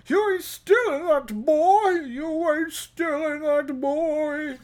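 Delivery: high, loud stern warning; hammed-up accusing greeter; imitating a suspicious greeter; mock threat. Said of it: "door greeter".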